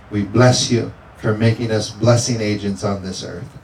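preacher praying with fervor; fervent prayer. Acted. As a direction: pray it out with conviction. Pastor praying over congregation.

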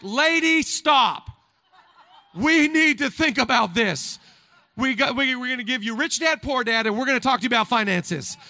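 a hint of a stern finance adviser scolding; lightly voiced money coach pleading; Dave Ramsey lecturing. Finance adviser stopping the widow, mild mock scolding. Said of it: "he would have been like".

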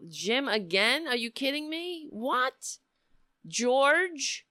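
high-pitched, stretched disbelief; real astonishment. Real, not acted. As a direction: squeal in amazement at each new name. Astonished at repeated donations in chat.

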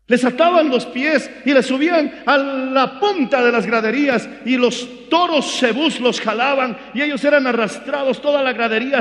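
full-force sermon shout; preaching shout. Acted. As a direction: cry it out to the congregation. Preacher describes martyrs' torture.

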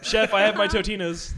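mock contestant. Pretend contestant presents dish to Chef.

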